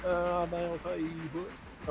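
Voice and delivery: a hint of a fast-talking good old boy; Boomhauer. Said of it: "Boomhauer for president".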